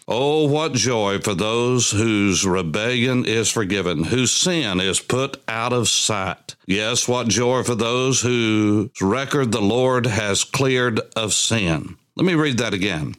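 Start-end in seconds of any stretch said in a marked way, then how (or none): 0.1-11.9 slow, measured psalm reading; scripture reading. Acted. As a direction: read the psalm aloud, drawing out the line endings. Reads psalm aloud.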